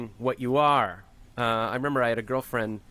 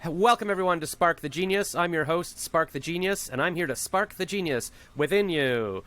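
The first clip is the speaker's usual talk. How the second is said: host intro voice; 5 semitones higher than usual. Retold or imitated. Podcast host reciting his show intro, announcer style. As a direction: open the show like a radio host. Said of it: "I've been like".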